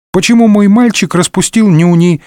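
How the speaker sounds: put-on high, babying coo; affectionate cooing. A narrator's reading. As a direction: coo as to a sulking little boy. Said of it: "ласково заворковала миледи".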